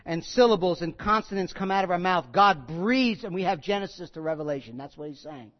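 usual speaking voice

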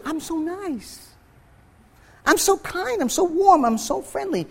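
high, soft self-satisfied voice; mock self-praise. Pastor mocks a self-righteous listener, high and soft. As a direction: simper it like a smug churchgoer.

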